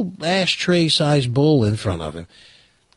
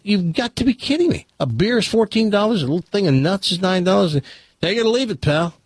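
exasperated disbelief; 5 semitones higher than usual. Retold or imitated. Customer outraged at prices again.

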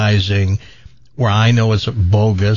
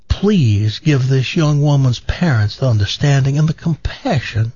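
lightly voiced TV preacher retelling a tearful encounter; gentle sermon-story lilt, barely shifted from own voice; Joel Osteen impression; 2 semitones higher than usual. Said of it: "he always tells the story like the person knows who he is".

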